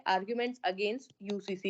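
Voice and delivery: "Arguments against UCC" said very slowly and evenly; slow dictation. Shown as a demonstration. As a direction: spell the heading out slowly for the students. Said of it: "या फिर जो आपके".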